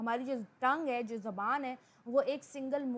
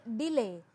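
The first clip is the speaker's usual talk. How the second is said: डिले with extra force on डि, none on ले; stress on first syllable; 4 dB louder, slower than usual. Shown as a demonstration. Teacher giving a second stress example, डिले punched on डि. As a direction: hit डि harder and leave ले unstressed. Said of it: "डी जो है उस पे ज़्यादा stress डाला है".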